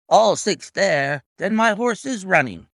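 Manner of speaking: high, loud, disbelieving echo; greatly agitated cry. A narrator's reading. Colonel learning his horse is running, greatly agitated. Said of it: "cried the colonel in great agitation".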